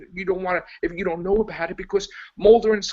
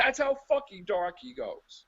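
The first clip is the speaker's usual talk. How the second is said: softer, laughing through "That's how fucking dark he goes"; laughing repeat; 4 dB quieter than usual. Real, not acted. Repeating the punchline to his laughing co-host, through a laugh. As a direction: say it again, giggling, softer.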